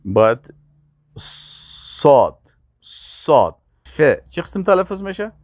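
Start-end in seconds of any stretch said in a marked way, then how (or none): 1.2-3.6 صاد with a long heavy emphatic S; correct Arabic Sad. Shown as a demonstration. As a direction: draw out the thick S of صاد, not a thin sin.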